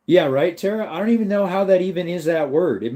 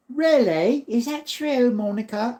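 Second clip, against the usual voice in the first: high, rising mock disbelief; surprised disbelief; 10 semitones higher, slower than usual. Real, not acted. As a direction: pitch it way up like you can't believe it. Incredulous at a viewer's comment.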